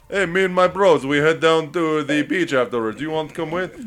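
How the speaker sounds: sleazy bro voice. Retold or imitated. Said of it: "It's like".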